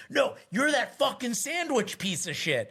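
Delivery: high, slow mock yell; half-yelled, drawn-out insult; retold screaming. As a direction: imitate a drunk accuser hammering it out. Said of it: "He starts screaming this at me".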